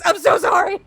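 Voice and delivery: high sorry through giggles; laughing apology. Real, not acted. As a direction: apologize while cracking up. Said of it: "I am so passionate about this".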